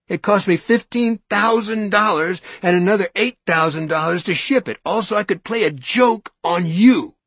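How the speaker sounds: mocking, mock-admitting, rising; mock his joke theory; sarcastic, loud confession parody; biting sarcasm. Sarcastic mockery of Norton.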